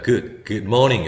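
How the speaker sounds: 'good, good morning' slowly, good with an 으-like vowel; slow model of 'good morning', 'good' unrounded. Shown as a demonstration. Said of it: "으로 발음합니다". ('good morning'의 good을 천천히 으에 가깝게)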